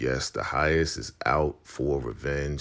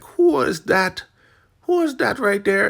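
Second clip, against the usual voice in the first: suspicious shout; 12 dB louder than usual. Retold or imitated. Marva calling out at the trailer door, loud. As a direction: call out into the dark. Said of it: "Marva is like".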